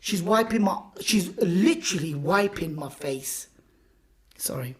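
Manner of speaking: tearful, half-whispered words, voice breaking; fighting back real tears while telling it; emotional, close to crying; choked up. Real, not acted. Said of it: "I started crying".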